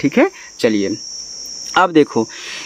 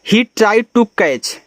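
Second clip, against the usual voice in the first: very slow, word by word; slow reading aloud; 5 semitones higher, much slower than usual. Shown as a demonstration. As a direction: read the line out for learners. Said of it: "यहाँ से".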